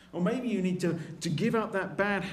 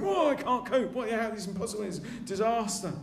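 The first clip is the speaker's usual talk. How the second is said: mock panic; 4 semitones higher than usual. Preacher imitating himself facing trouble, mock panic. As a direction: throw up your hands in mock despair. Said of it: "Something happens and I think".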